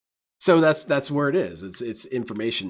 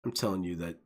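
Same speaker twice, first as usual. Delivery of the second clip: shady dealer; 5 semitones lower, 10 dB quieter, faster than usual. Retold or imitated.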